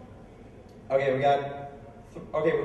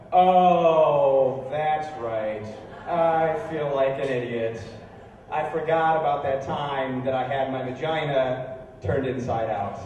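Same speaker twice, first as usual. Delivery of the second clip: sarcastic; 4 semitones lower, slower than usual. Acted. Sarcastic pretend remembering.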